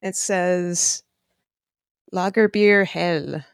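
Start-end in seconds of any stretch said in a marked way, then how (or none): 2.1-3.4 lightly faked German accent, drawn out slowly; terrible German accent. Reading a beer label to co-hosts in a terrible German accent. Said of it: "That's my terrible German ox-, accent".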